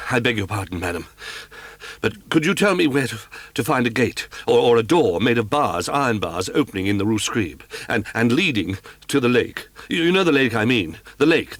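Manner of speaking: stammering, breathless, urgent questions; frantic Raoul tripping over his words; hurried, halting plea for directions; flustered young man. Acted. Raoul frantically asks the concierge.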